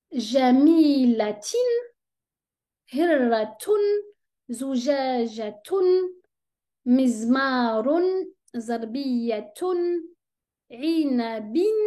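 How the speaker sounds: teacher reads vocabulary aloud for students, slowly; slow word reading. Shown as a demonstration. قراءة الكلمات ببطء. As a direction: read each Arabic word slowly and clearly. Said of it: "nous allons lire certains mots".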